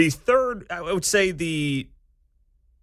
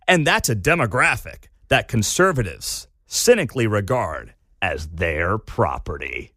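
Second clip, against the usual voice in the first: dramatic article reading; 5 semitones lower than usual. Retold or imitated. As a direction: read it out with heavy emphasis, dropping low at the end.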